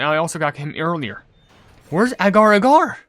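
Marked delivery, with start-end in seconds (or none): 1.9-3.0 loud, drawn-out, rising demand; frustrated call. Real, not acted. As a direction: call out for what's missing, slow and high. Frustrated hunt for a missing cookie.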